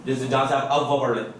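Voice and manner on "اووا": "اووا" with waw formed at the place of fa; waw made like fa. Shown as a demonstration. Teacher showing waw wrongly made, fa-like articulation. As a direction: put the waw of "اووا" on teeth and lip. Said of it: "یہ جو ہے فا کا مخرج ہے".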